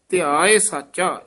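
"ਧਿਆਏ ਸਾਚਾ" closed with a rest; measured "ਧਿਆਏ ਸਾਚਾ" to a phrase end; full pause after. Shown as a demonstration. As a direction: finish on "ਸਾਚਾ", then stop. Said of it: "ਇੱਥੇ ਵਿਸਰਾਮ ਹੈ".

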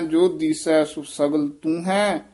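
ਤੂੰ ਹੈ said together without a break; joined reading. Shown as a demonstration. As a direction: run ਤੂੰ straight into ਹੈ. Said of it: "ਇਕੱਠਾ ਹੀ ਪਾਠ ਉਚਾਰਨ ਕਰਨਾ".

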